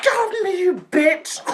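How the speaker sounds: high imitation of a furious yell; shrieked insult. Cousin about to be slapped, shrieked insult. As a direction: screech it, then spit the insult. Retold scuffle before the slap.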